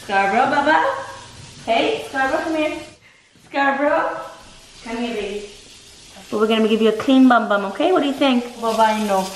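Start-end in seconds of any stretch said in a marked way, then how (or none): 0.0-5.5 calling the dog. Real, not acted.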